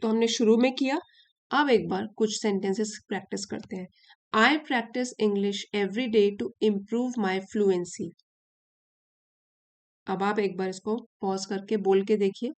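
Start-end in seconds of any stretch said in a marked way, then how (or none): 4.3-8.1 very slow, carefully spaced English for learners to copy; slow model reading. Shown as a demonstration. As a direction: read each sentence slowly so students can shadow it. Reads a model sentence slowly. (धीमी, साफ़ आवाज़ में अभ्यास के वाक्य पढ़ना)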